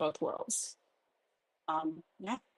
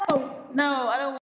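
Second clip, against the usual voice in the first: higher, louder, down a well; echoing voice changer; 6 semitones higher, 5 dB louder, slower than usual. Real, not acted. User lost in the voice changer, hollow echo. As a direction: protest through a hollow echo effect. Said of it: "Sounds like you're at the bottom of a well".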